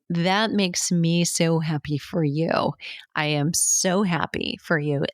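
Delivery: mean it, unhurried and genuinely glad. Shown as a demonstration. Coach showing a client how to respond, slow and sincere. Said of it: "You're just literally curious".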